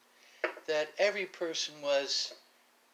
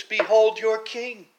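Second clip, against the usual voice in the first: loud, higher, slow declaration; Pilate proclaiming; 6 semitones higher, 15 dB louder, slower than usual. Retold or imitated. Pilate presenting Jesus to the Jews, slow loud proclamation. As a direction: present him grandly and slowly. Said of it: "he said to the Jews".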